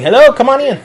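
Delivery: loud, high-pitched greeting; calling out welcome. Real, not acted. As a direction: call across the room to latecomers. Greets latecomers walking in.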